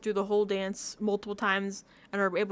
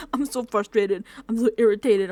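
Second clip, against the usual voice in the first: louder, irritated outburst in imitation; mock frustration; 6 dB louder than usual. Acting out a frustrated contestant, mildly irritated. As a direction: vent two short irritated complaints. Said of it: "you're mad as fuck".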